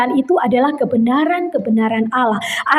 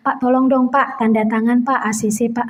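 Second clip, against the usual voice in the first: low, soft mock request to a boss; pleading employee; 6 semitones lower, 3 dB quieter than usual. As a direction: lightly act a meek worker asking a favour. Office worker begging boss for signature. (menirukan karyawan memohon pelan)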